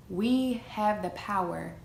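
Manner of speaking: "power" leaned on, slow and drawn out; stress on POWER. Real, not acted. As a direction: give "power" the weight of the line, slowly. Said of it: "and I emphasize the word power".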